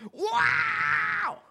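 very high, loud wailing scream; full-voiced mock shriek; imitated scream. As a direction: scream your lungs out, imitating her. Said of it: "she'd scream her lungs out".

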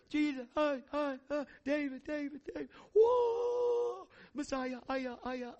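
high-pitched mock crowd cheering; hammed-up adoring crowd; cheering crowd fanfare. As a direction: imitate excited fans calling out with a whoop. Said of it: "you know, that's the fanfare".

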